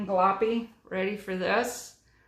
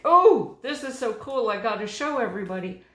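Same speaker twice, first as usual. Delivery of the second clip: excited gushing; 7 dB louder, faster than usual. Pretend. Crafter imagining an eager stamper showing everybody, excited gushing. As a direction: gush like you can't wait to show it off. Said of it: "hadn't been like".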